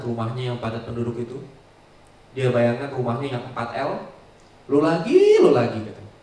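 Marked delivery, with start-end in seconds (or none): 4.7-5.4 high, loud rising "Lu lagi"; exasperated shout. Retold or imitated. Person fed up in a cramped house, loud exasperated cry. 5.4-5.8 "lu lagi" loud but dropped low and falling; weary grumble. Retold or imitated. Same person in the cramped house, loud falling grumble.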